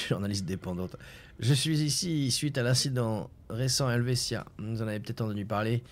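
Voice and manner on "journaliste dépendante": laughing at the slip, a bit lower; mocking laugh. Real, not acted. The player jokes about misreading the journalist's ad, laughing. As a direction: chuckle through the misread word. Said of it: "indépendante".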